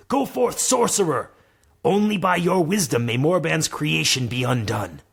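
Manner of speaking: put-on rallying call to the young sorcerer; lightly voiced mentor command. Granlo's voice in story.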